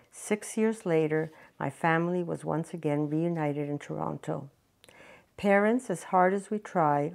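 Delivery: measured personal memoir reading; prepared reading with pauses between sentences; story narration. Acted. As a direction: read your own story aloud, phrase by phrase. Continues reading her written story.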